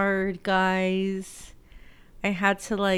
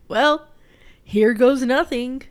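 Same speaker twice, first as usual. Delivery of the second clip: resigned shrug; 4 semitones higher, 9 dB louder than usual. Retold or imitated. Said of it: "And I was like".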